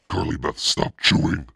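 loud, high urgent call; warning shout. Acted. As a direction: shout it out before she swallows. Boys warn her mid-bite.

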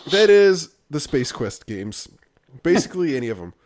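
talking through hiccups; hiccuping between words. Real, not acted. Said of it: "I'm, like, hiccuping".

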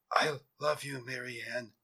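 faint last words, fading away; barely whispered. A narrator's reading. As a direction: let the voice die away on the name. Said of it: "he barely whispered".

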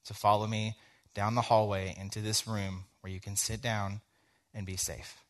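soft, measured, understated appeal; gentle pleading. Retold or imitated. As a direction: retell a quiet appeal for trust. Teacher asking student for trust.

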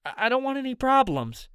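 high-pitched nervous stammer; shaky voice. A narrator's reading. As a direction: plead uneasily, tripping on the first word. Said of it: "his voice shaky".

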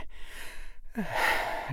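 long, soft breathy sigh. Acted. Harry finds the door really locked, soft sigh. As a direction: let out a quiet, resigned breath. Failed doorknob attempt, narrator sighs.

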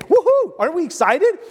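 high, loud fake celebration; mock party whoop, dripping sarcasm; sarcastic cheer. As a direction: cheer in mock delight at bad news. Sarcastic cheer at death news.

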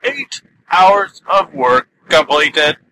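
slow robotic monotone powering down. Pretend. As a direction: speak like a robot shutting off. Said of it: "I haven't done that in a while".

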